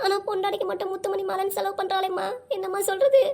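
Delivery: acted, mildly tearful complaint in a steady monotone; tearful lament. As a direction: lament like a neglected mother, holding back tears. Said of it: "அழுவாத". (லேசான அழுகையோடு புலம்பல்)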